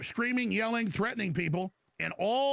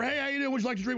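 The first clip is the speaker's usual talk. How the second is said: lightly acted server, pitched higher; waiter's greeting; 6 semitones higher, faster than usual. Host voicing server at Mexican restaurant, waiter's greeting.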